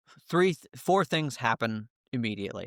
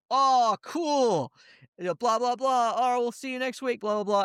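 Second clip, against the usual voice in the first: very high squeaky chatter voice; cartoonish high chat chorus; chat voices squeaking; 11 semitones higher than usual. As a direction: squeak out the chat in a tiny falsetto.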